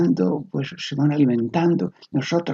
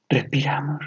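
hushed meditation whisper; whispered breath cue; 2 semitones higher than usual. Shown as a demonstration. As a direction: breathe the word out, barely voiced. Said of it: "entre respiración y la otra respiración".

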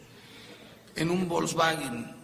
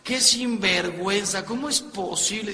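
mock-hysterical indignant wife; hysterical outrage, acted; 3 semitones higher than usual. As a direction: act out a wife's indignant outburst. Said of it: "histérica gritando".

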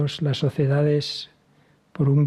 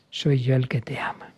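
loving whisper. Acted. Jesus speaks his love.

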